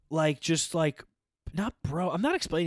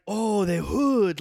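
slow, loud, exaggerated Asian accent; jokey Asian accent impression of a foreigner talking about Compton; mock Asian accent; 4 semitones higher, 5 dB louder, much slower than usual. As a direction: stretch it out in a put-on Asian accent. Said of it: "that was my Asian accent doing it".

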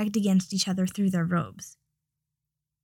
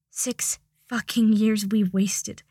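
slow regret; much slower than usual. Acted. Regretful lovers reunited.

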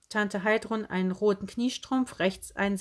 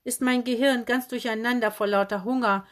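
called out; 2 semitones higher, 3 dB louder than usual. Acted. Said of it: "sie rief".

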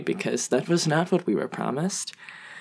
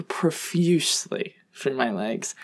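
whisper; 5 dB quieter, slower than usual. Retold or imitated. Shocked at the bleeding.

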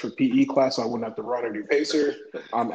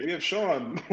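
higher, playful game-show introduction; lightly put-on host presenting a contestant; announcer voice; 4 semitones higher, 5 dB quieter, slower than usual. Shown as a demonstration. Host introducing himself as a contestant, playful announcer voice. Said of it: "an announcer voice".

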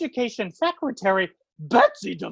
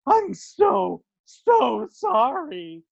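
apologetic; much slower than usual. Acted. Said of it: "I feel so bad".

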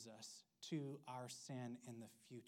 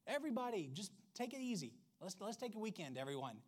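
confident huzzah; 4 semitones higher than usual. Retold or imitated. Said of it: "greeting ... basically saying".

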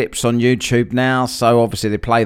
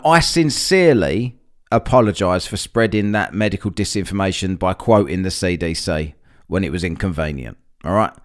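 fake apology; 2 semitones lower than usual. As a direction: apologise without meaning it. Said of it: "I'm not genuine".

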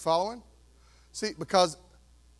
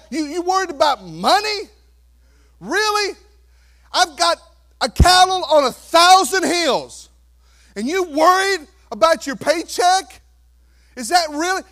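much higher, louder mocking disbelief; incredulous Jesus; 7 semitones higher, 8 dB louder than usual. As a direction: scoff at their small worries. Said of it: "can you hear Jesus today say".

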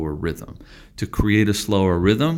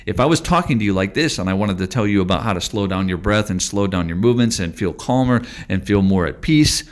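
fast, hurried delivery, a little louder; rushed talking; 4 dB louder, faster than usual. Shown as a demonstration. Teacher demonstrating the wrong pace, fast and rushed. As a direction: rattle it off to show how it clashes with calm. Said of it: "just as I'm doing now with altering the speed of my talking".

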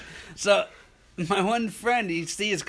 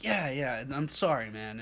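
mumbled fake sorry; 3 semitones lower, 6 dB quieter than usual. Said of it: "I'm like".

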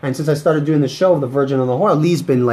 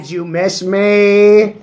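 slow teasing; 4 semitones higher, 4 dB louder, much slower than usual. Acted. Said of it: "my annoying voice".

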